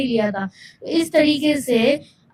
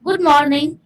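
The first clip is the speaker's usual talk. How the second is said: steady, controlled confident greeting; confident and clear; 3 semitones higher, much slower than usual. Shown as a demonstration. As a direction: say it calm, clear and sure. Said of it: "confident and clear". (आत्मविश्वास से साफ़)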